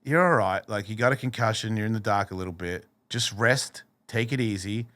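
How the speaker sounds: mild, easygoing reassurance; kind inner voice. Retold or imitated. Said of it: "That is not the same voice".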